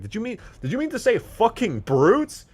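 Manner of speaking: high, loud hammed-up furious yell. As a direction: scream the correction in his face. Shoving you against the wall.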